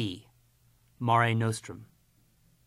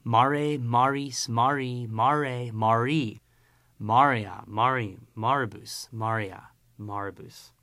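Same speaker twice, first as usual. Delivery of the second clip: choral recitation; 3 dB louder than usual. Shown as a demonstration. Teacher chanting mare's declension along with pupils. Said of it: "Now with me".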